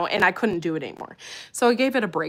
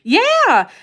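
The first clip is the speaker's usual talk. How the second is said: high, loud Southern drawl on a short yeah; Tennessee accent; 13 dB louder than usual. Retold or imitated. Streamer imitating a Tennessee cousin in a Southern accent. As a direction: mimic a Tennessee relative. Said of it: "I could just hear her accent".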